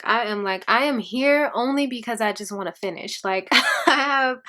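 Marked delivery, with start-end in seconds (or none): 3.5-4.4 laughing slowly through the words; slow laugh while admitting no motivation. Real, not acted. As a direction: giggle at how little you want to be there. Laughing at her own reluctance.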